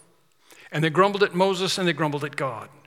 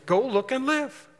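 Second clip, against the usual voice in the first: much higher, slow urging call; urging crowd; 9 semitones higher than usual. Retold or imitated. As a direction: call out to the doubter slowly. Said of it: "They go".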